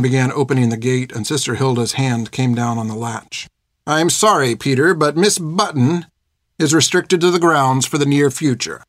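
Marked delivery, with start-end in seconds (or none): 3.9-8.8 prim, clipped refusal; politely cold schoolmistress; stern nun voice. Acted. Hilda refuses Peter.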